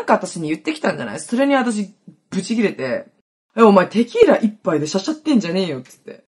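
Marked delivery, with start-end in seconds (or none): 3.6-5.8 retold blow-up. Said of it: "もうブチ切れ".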